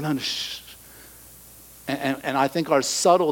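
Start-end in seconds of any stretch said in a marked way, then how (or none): 0.0-0.6 hushed brush-off. Pretend. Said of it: "And we're like".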